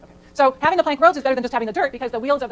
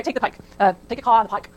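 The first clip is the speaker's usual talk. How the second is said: attempted Boston accent; 3 dB louder than usual. Shown as a demonstration. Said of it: "say it with a Boston accent".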